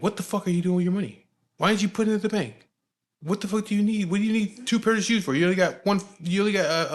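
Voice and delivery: high-pitched indignant scolding; blowing his mind. Retold or imitated. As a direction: imitate an exasperated elder ranting about wasted money. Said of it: "he would blow his fucking mind".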